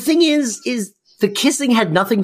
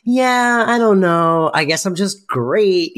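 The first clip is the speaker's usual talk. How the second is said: downplay it while clearly pleased with yourself; imitating a proud humblebrag; proud false modesty; 5 semitones higher than usual. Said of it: "clearly very proud of herself".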